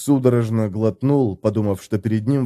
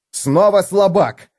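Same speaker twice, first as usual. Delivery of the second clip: higher, louder, slow «Снова слабак»; outraged cry; 8 semitones higher, 4 dB louder, slower than usual. A narrator's reading. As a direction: spit out «слабак» with fury. Felix furious at repeated insult. (Феликс в бешенстве кричит «Снова слабак!»)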